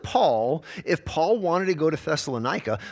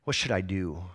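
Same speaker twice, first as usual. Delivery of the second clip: mock scared; 8 semitones lower, 6 dB quieter than usual. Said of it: "put your head under your pillow and say".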